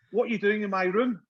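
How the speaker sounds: put-on silly Italian accent through a laugh. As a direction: imitate an Italian footballer's puzzled question. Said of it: "Fucking silly Italian accent".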